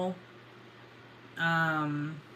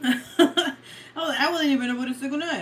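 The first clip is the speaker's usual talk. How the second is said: quick, higher, through laughter; laughing; 4 semitones higher than usual. Real, not acted. Explaining the cut-off to viewers, laughing. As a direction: rush it out while laughing. Laughing over the dropped stream.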